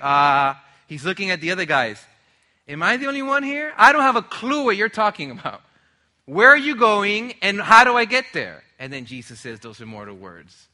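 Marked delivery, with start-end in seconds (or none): 2.7-8.6 higher, louder incredulous questioning; baffled disciple. Acted. Thomas protesting he has no clue, baffled. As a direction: act out exasperated confusion, pitch raised. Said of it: "Thomas is just like".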